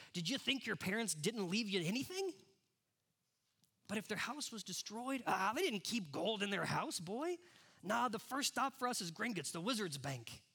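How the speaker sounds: big bearded giant, lightly voiced; hint of a gruff, kindly giant; gruff Hagrid voice. A narrator's reading. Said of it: "He's got a gruff voice".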